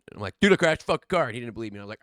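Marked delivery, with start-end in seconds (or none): 0.4-1.2 insisting. Retold or imitated. Insisting to his buddy who won't believe, louder. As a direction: push it because he won't believe.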